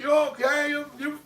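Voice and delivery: high, sing-song mock concern; creepy concerned old lady. Old lady mock-asking the panicking boy, high and sweet. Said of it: "She like".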